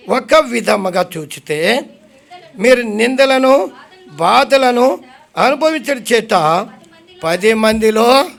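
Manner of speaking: slow, deliberate verse reading with pauses; scripture reading. Real, not acted. Preacher reading Hebrews to the congregation, slow and deliberate. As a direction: spell out the verse phrase by phrase, unhurried.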